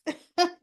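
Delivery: quick burst of real laughter; short laugh. Real, not acted. Vlogger laughing at the politics line, a quick burst. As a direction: laugh out at the joke. Finds the scene funny.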